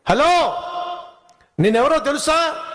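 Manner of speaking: a sly fox showing off to the lion; cheeky fox. Acted.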